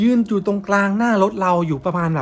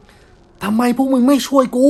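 much higher, louder, very slow wailing ghost voice; shrieking ghost woman; 8 semitones higher, 7 dB louder, much slower than usual. Retold or imitated. The ghost woman answering back inside the car, a high slow wail. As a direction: wail it like a vengeful dead woman. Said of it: "มีเสียงผู้หญิงสวนกลับขึ้นมา".

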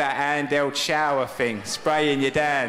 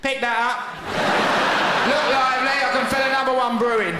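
cheeky dog voice; 10 semitones higher than usual. Pretend. Dog voiced taunting owner.

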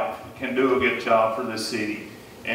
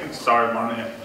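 laughing apology; 3 semitones lower than usual. Real, not acted. Apologizes while still laughing.

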